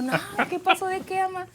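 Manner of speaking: high-pitched mock-innocent denial; feigned innocence. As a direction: play dumb with your mother.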